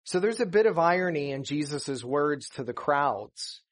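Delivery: ordinary talk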